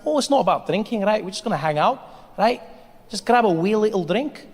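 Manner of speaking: put-on coaxing Scottish accent; light Scottish lilt, making it sound harmless; Mick. Friend persuading comic to drink, coaxing Scottish accent. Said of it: "Scottish people do that so well".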